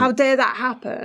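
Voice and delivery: lightly acted child's indignation; angry inner child. Host voices the child's outrage at the past, mildly indignant. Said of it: "that's what's making the child angry".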